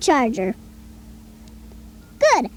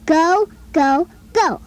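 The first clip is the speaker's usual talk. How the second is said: each "go" leaned on, the long O held round and clear; teacherly emphasis on every "go"; O sound stressed; slower than usual. Shown as a demonstration. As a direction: repeat "go" with the O vowel pressed for a listening child. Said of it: "tell me which words have the O sound".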